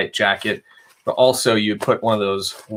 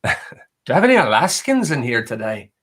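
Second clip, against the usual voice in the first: laughing Irish accent redo; 3 semitones higher than usual. Shown as a demonstration. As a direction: repeat the question with a playful Irish accent, laughing. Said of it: "Kinda said that in a Irish accent".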